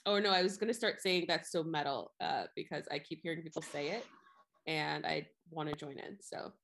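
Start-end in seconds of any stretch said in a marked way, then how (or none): 1.3-2.1 flat deadpan delivery; monotone. Shown as a demonstration. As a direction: say it with no inflection. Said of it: "in a monotone voice".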